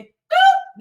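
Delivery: high squeaky mock boop; a tiny cartoon boop sound. Mock sound effect for death.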